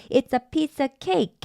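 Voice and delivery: "cake" with a tense unaspirated k; linked k. Shown as a demonstration. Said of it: "K가 자연스럽게 A로 붙어버리는데요".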